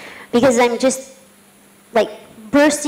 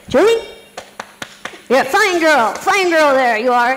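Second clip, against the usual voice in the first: imitating the old trainer; 2 semitones higher than usual. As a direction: play the patronising old trainer patting her. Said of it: "he'd be like".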